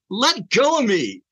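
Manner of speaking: high, drawn-out mock yell; retold yell. Husband tells wife gripping his arm in church, retold yell. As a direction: re-enact yelling to break free, pitch jumping up. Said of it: "I basically yelled it out".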